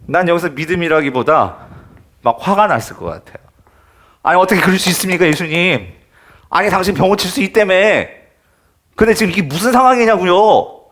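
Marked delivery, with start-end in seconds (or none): 4.2-10.9 fast, rising protest; mock heated complaint. Father imagines confronting Jesus, mock heated. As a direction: play the upset father pleading with Jesus. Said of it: "열을 내지 않았을까?".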